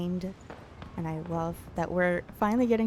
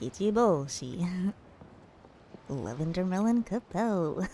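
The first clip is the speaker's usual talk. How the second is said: a hint of a playful Tanuki. Shown as a demonstration. Streamer finding the character again, light Tanuki voice. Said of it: "I have to say Kichiboshi's name in it".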